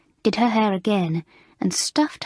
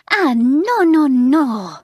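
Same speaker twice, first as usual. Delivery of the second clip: much louder, higher angry cries; crying out in rage; 6 semitones higher, 8 dB louder, much slower than usual. A narrator's reading. French mistress raging at the sixth form, loud angry cries. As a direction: wail her outrage at the class. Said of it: "she cried".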